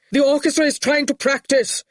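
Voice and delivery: high, plaintive bleat. A narrator's reading. Mister Caldwick protests to Torquil, high plaintive bleat. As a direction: protest in a thin bleating whine. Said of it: "Mister Caldwick bleated".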